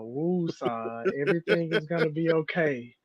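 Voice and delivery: playful woo-sah calming chant; mock calming mantra. Friend soothing the ranting host, mock calming chant. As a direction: soothe him like a joking therapist. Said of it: "Phil, please calm me down".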